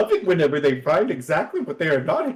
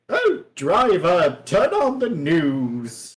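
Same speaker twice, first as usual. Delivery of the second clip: slow, lofty lady of leisure; posh lady; 3 semitones higher, slower than usual. Acted. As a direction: drawl it like a pampered socialite. Posh lady orders her driver.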